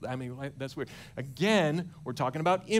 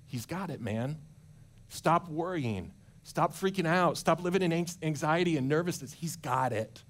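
reassuring future self. Retold or imitated. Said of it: "come back to your present self and say".

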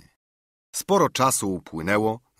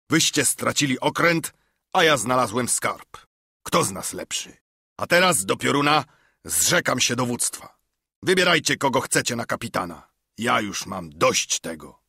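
defiant outburst; 3 semitones higher, 3 dB louder than usual. Acted. Silver resigns command.

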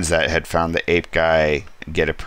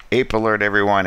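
higher, louder alarm call to the room; mock alarm call; 4 semitones higher, 3 dB louder, faster than usual. Teammate warning the sleeping group, mock alarm call. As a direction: sound the alarm to everyone. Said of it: "And he's like".

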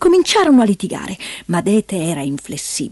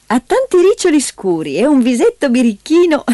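raised, lively motherly voice; louder, higher, affectionate lilt; fond mother; 6 semitones higher, 5 dB louder than usual. A narrator's reading. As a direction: describe the child with fond delight. Mother lovingly describes the child.

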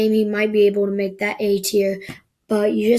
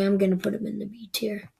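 whispered aside; 6 dB quieter, faster than usual. Real, not acted.

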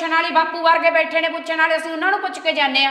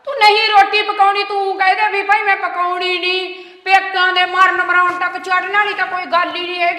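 loud, raised scolding; heated scolding; 3 semitones higher, 5 dB louder than usual. Acted. Scolding sister-in-law loudly over cooking.

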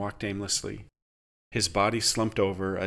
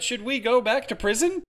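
shouted; 13 semitones higher than usual. Acted. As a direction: egg the crowd on. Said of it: "Amy shouted".

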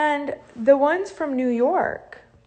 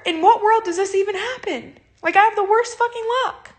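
higher, voice tightening toward tears; upset and close to crying, real; starting to cry; 7 semitones higher than usual. Real, not acted. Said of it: "I'm sorry that I'm crying".

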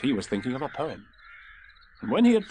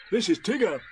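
higher character voice, introducing someone; Pooh; 8 semitones higher, 4 dB louder than usual. A narrator's reading. Bear introducing his new friend, in a higher voice. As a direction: present the newcomer in a raised pitch. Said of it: "said Pooh".

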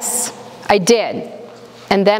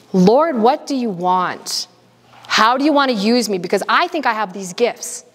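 retold desperate prayer; 3 semitones higher than usual. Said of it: "Like, I screamed".

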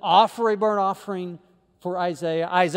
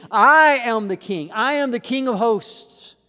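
voice of God; 6 semitones higher, 6 dB louder than usual. Acted. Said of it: "God calls Isaiah with the vision".

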